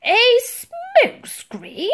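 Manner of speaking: very slow, high, loud disbelief; spluttering. A narrator's reading. Admiral questions Titch's idea, spluttering. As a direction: stretch A SMOKE SCREEN into an incredulous question. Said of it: "spluttered the Admiral".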